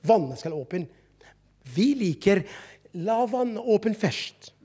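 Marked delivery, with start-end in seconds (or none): none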